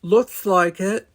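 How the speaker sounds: high, slow burbling alien. Acted. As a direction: stretch it out in a high creature voice. Ichthian character voice.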